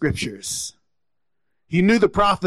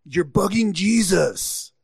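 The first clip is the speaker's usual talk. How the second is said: higher-pitched mock hushing of a pest; shushing; 5 semitones higher than usual. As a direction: imitate officious followers shooing someone away. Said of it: "they kind of tried to silence him".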